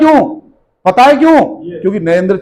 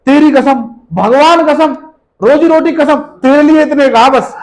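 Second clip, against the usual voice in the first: lightly acted liar swearing, pitched higher; mock false oaths; 5 semitones higher than usual. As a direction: imitate someone piling up oaths to convince. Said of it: "लोग बाहर झूठ बोल रहे हैं".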